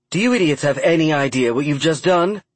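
furious. A narrator's reading. Emma furious on phone.

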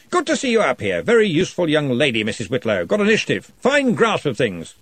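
jovial lordly wizard; booming Arch-Chancellor. A narrator's reading. Arch-Chancellor praises Glenda.

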